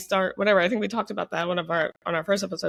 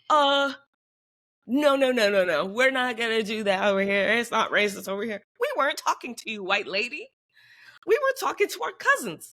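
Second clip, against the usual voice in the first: mocking white lady; 3 semitones higher than usual. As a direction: lightly play a prim objecting woman. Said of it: "a white woman from Scotland, like".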